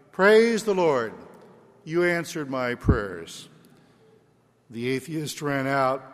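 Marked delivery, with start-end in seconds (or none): 0.1-3.5 joyful shout. Acted. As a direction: cry out thanks to the Lord. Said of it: "he heard her shouting".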